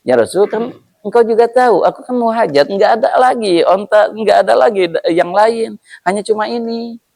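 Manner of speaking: high, insistent owner explaining his need; insistent camel owner. Acted. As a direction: argue your case, high and pleading. Owner pleading. (pemilik unta bersikeras dengan suara tinggi)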